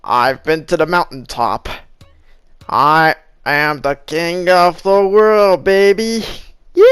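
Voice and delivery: grandiose king of the world rant; slow, booming self-crowned ruler; megalomaniac rant. Pretend. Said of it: "As Martin Luther King said".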